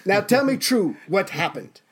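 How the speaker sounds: acted Hitler. Plays Hitler demanding the truth.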